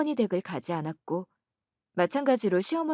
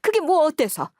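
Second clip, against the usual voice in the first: higher, louder defiant challenge; defiant retort; 8 semitones higher, 6 dB louder than usual. Acted. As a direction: toss it back at her, raised. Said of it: "하면서 시어머니께서 눈물바람을 하시더군요". (따지듯 높여서)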